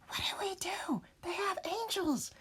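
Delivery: put-on scared kid's hushed whisper; low whisper. Tony to his friend hiding from the players, low whisper. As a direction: whisper it softly, all breath. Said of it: "says in a real low whisper".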